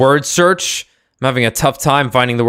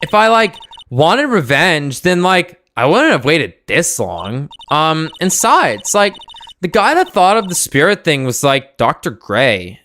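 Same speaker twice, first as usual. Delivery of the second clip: put-on valley girl voice; 3 semitones higher than usual. Voicing the young witness.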